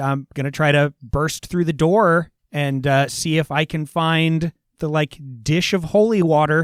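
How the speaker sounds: ordinary delivery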